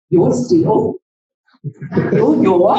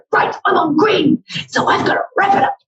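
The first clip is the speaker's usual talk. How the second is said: mock hurried self; 8 semitones higher, faster than usual. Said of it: "and I'll go".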